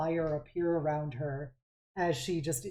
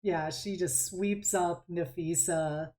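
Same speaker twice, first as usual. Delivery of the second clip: ordinary delivery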